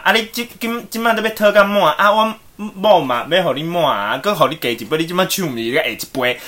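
father rebukes the complaining customer, loudly; loud retort from father. Retold or imitated. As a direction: scold the customer for all to hear. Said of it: "故意讲很大声给客人听".

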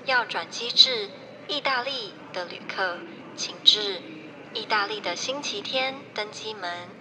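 polished gate announcer voice; airport announcement. Pretend. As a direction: read it like an airport PA. Mock airport boarding announcement.

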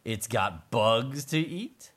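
happy mole. Acted. Mole admiring his new place to live, slow pleased character voice. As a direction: savor each phrase slowly as the mole. Mole's speech in story.

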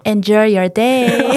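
slow, gentle farewell. Pretend. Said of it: "温柔的声音".

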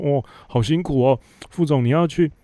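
butter up the boss in a simpering voice; fawning flattery. Retold or imitated. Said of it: "就在那边拍马屁". (阿谀奉承的假关心语气)

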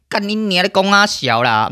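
high, sharp cursing outburst; furious curse. Real, not acted. Streamer blowing up at a commenter, high furious curse. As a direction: explode at the commenter.

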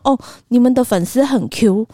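said again slowly and flatly; calmly restating a compliment to a stunned waiter; slow deadpan repeat. Retold or imitated. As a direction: repeat the line, unbothered and slow. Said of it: "震惊加惊讶的眼神看我".

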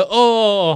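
odd moan. Retold or imitated. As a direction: imitate an almost-crying moan. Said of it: "叫的方式都怪怪的".

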